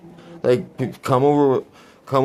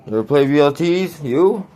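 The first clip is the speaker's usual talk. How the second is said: mock crowd talk; 6 semitones higher than usual. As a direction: pretend to ask an imaginary crowd. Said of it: "just pretending like there's a crowd".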